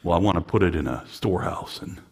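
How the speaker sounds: lightly voiced miser. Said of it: "Okay, Scrooge".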